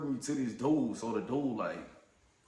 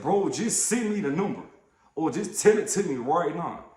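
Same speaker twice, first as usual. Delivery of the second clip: irritated demand; 4 semitones higher, 5 dB louder than usual. Retold or imitated. Retold argument over phone.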